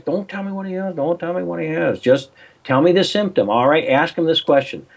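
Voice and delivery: insistent advice. Retold or imitated. His own reply retold.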